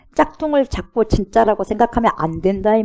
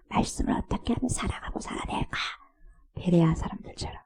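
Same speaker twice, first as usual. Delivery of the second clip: whisper; 11 dB quieter than usual. Real, not acted. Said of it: "preacher drops to a whisper".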